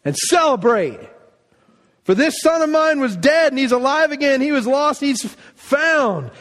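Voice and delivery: eager, commanding joy; jubilant father. Retold or imitated. Father ordering a feast for his son, jubilant. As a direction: hurry the servants with delight.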